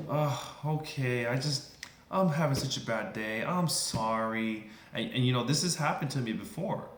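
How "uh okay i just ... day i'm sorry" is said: slow sigh easing into apology; apologetic customer. Acted. Customer apologizes to the clerk for the bad day, deflated. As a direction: act out someone winding down and sorry.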